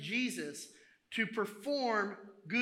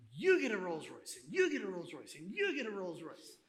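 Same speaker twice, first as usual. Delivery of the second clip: swooping pitch on each YOU; giveaway announcement. Acted. Giving everybody here a Rolls Royce, playful announcer. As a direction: hand out prizes one by one, each line falling away.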